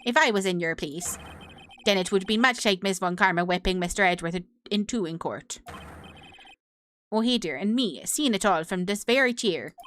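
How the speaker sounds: judge in a put-on Canadian accent; lightly voiced Canadian judge rambling; bad Canadian accent. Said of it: "This accent is truly terrible".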